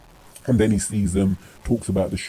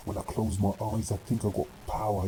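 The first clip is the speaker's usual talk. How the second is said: spottend zacht nagedaan, alsof hij zweverig mediteert; mocking quote; 10 dB quieter than usual. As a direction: doe hem honend na, stil en dromerig. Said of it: "You know, all this power".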